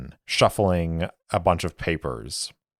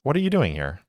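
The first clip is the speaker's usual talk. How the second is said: bright, higher and sweet over annoyance; false smile; 7 semitones higher, much faster than usual. Acted. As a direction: ask through a forced polite smile. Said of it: "keeping that false smile on her face".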